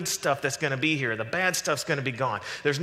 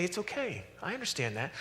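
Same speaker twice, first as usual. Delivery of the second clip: softer, reassuring acted voice of God; gently calm someone who has been complaining; understanding, hushed-down reassurance; soothing reply; 4 semitones higher, 8 dB quieter than usual.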